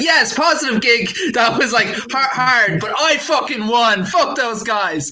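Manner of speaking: mock triumphant American enthusiasm; upbeat American mindset. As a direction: play the proud winner, a touch exaggerated. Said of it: "I love the American mindset".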